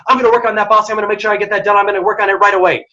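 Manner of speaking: fast eager reply. Shown as a demonstration. Employee answering a fast-talking boss, quick and eager. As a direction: rattle it off like a keen employee who's on it. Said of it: "someone's talking really quickly and you're saying".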